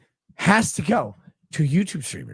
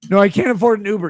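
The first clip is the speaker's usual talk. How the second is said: mocking whiny voice; 4 semitones higher, 6 dB louder, faster than usual. Mocking the fan's replies.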